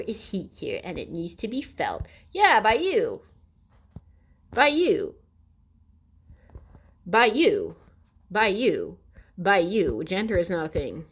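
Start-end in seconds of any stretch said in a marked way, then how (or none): 2.3-10.0 loud, insistent repeat; repeated jab. Real, not acted. Answering the article with loud insistent repeats. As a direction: hammer it home each time.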